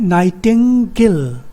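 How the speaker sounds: नाइटिंगेल slowly, नाइ-टिंग-गेल; syllable by syllable. Shown as a demonstration. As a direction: separate the three syllables of नाइटिंगेल. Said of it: "दो syllable हो गए".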